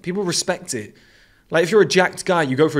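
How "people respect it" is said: usual speaking voice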